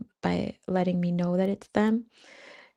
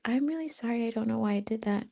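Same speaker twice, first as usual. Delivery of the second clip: sheepish apology; 3 semitones higher, 5 dB quieter, faster than usual. Retold or imitated. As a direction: mumble sorry, a bit flustered. Cashier apologizes, embarrassed.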